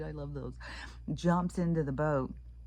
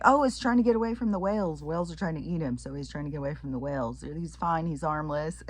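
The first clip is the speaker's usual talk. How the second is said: breezy guide; 3 semitones higher, 4 dB louder, faster than usual. Retold or imitated. Tour guide explaining calmly, lightly voiced. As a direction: casually explain the seal away. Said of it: "he's like".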